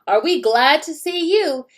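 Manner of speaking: put-on gleeful kids. Kids cheering in story.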